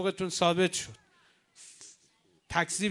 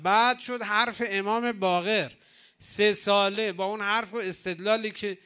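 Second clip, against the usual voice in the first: fervent preaching; 3 semitones higher than usual. Acted. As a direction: drive each step home from the pulpit. Preacher lists the chain of events.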